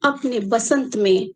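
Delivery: measured poem reading with long pauses; unhurried verse recitation; poetry recital. Acted. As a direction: recite line by line, letting each phrase land. Recites second part of poem.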